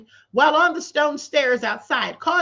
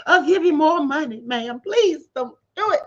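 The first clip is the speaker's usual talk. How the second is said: mock begging. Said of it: "Now a rapper's begging and pleading".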